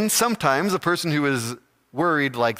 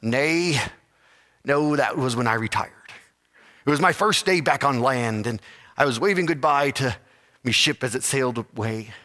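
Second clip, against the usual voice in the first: pirate voice; 2 semitones higher than usual. Acted. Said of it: "in his piratey voice".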